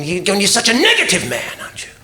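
hushed mock whisper of the sister-in-law. Mimicking his sister-in-law's whispered scolding. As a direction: whisper her scolding back, mocking her. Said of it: "and she's fucking".

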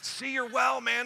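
loud, high and emphatic; excited exclamation. Acted. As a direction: cheer him on his recovery. Repeats Jesus's exclamation.

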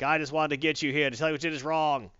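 lightly put-on commissioner voice; a hint of a character accent; Gordon. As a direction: play a police commissioner, lightly acted. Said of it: "That's the accent I'm using for Gordon".

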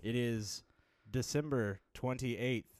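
slow, flat robotic read. Shown as a demonstration. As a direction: deliver it like a stiff machine. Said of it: "in that robot voice".

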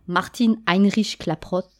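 a hint of a bad German accent on the name. Lecturer mangling a chemist's name in a mock German accent. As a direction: say Martin Heinrich Klaproth with a lightly put-on German accent. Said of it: "désolée pour mon accent allemand déplorable".

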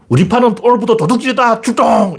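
high, rallying mock order; acted boss's call to action; gang boss's command. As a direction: send the gang out with a proclamation. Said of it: "조폭 보서가 이 도둑질을 명령 낼 때".

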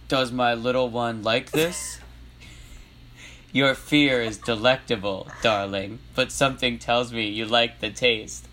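lightly voiced menacing clown; a hint of a guy's character voice; deliberate, teasing villain dialogue; Pennywise. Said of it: "then I'll do Penny voice".

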